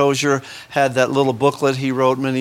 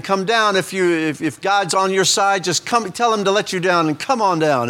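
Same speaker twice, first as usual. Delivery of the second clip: a hint of a jeering crowd, only a touch higher; mocking taunt; 5 semitones higher than usual. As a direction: lightly mimic the mockers at the cross. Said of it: "or mocking him and saying".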